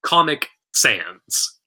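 low, slow Sans voice; Sans impression. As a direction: drop low and drag it like Sans. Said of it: "incredible Sans impression".

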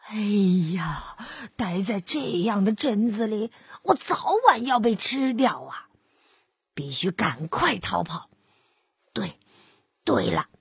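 put-on low, worried old wolf muttering to himself; a sly wolf plotting his escape; old wolf's low voice.

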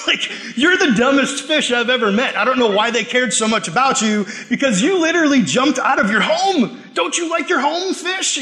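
exasperated telling-off, pitch climbing high; comic scolding, rising to an incredulous question; mock scolding. Man telling off a dead pet fish, mock scolding.

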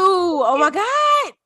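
high, drawn-out delighted oh my God; excited gasp. Real, not acted. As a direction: gush in slow amazement. Reacting to signed book news.

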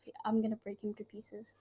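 whispered mock threat; breathy joking menace; whispering.

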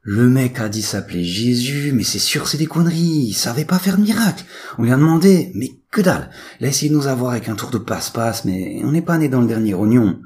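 high, loud, rattled-off character voice; loud high-pitched young troublemaker; excitable twin recounting. A narrator's reading. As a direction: tell it high and loud, indignant at being fooled. Willy, loud twin, recounts in story.

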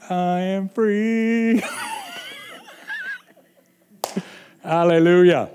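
slow shouted praise breaking into laughter; joyful shout. Real, not acted. Preacher rejoicing before the church, shouting and laughing. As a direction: cry it out in triumph.

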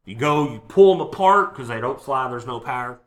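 suspenseful build with long pauses; game master narration. Acted. Game master leading players to a cliffhanger, suspenseful narration. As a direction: hold back the reveal, phrase by phrase.

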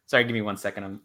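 hoarse, tiring voice; strained voice giving out. Real, not acted. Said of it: "I'm losing my voice".

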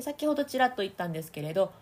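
ordinary talk

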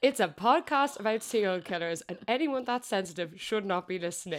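half-laughing reading of a message; reading it out, cracking up; reading through laughter. Retold or imitated. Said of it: "they've started by saying".

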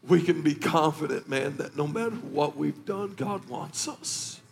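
low, hushed, slowing to near breath; real emotion. Real, not acted. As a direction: gather yourself, still moved. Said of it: "I'm emotional this morning".

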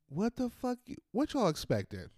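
sudden high squeal of disbelief; incredulous outburst. Real, not acted. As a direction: jump way up in pitch, stunned.

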